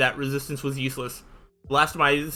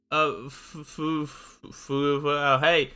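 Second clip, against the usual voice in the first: stammering in fear; much slower than usual. Acted. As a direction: try to get the word out and fail. Terrified girl can't speak.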